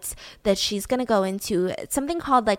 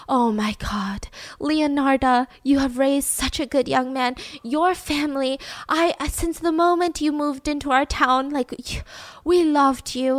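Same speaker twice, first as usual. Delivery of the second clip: gushing neighbors; 4 semitones higher than usual. Acted. Townsfolk praise the mother for her brave son, gushing. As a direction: lightly imitate admiring townsfolk, starting in a hush.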